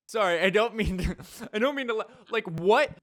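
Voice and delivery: high, loud, laughing through the words; can't get it out for laughing; giggling real bewilderment; laughing disbelief. Real, not acted. Laughing at the story.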